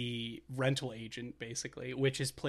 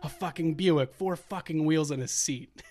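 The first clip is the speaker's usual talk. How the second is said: angry rant. Retold or imitated. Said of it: "this is the whole exchange".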